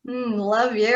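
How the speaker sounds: a soft, knowing mock love you; shady tone. Shown as a demonstration. Shady love you to someone she secretly hates. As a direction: say it so they know you mean the opposite. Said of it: "I'm gonna have tone behind it".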